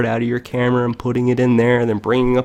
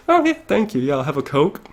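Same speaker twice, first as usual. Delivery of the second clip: high polite passenger; 5 semitones higher, faster than usual. Acted. Acting a passenger ordering drinks.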